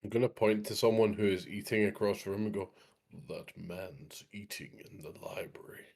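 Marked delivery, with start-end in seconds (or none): 3.3-5.9 slow, hushed whisper. Acted. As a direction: lean in and whisper the tip. Whispering in the library.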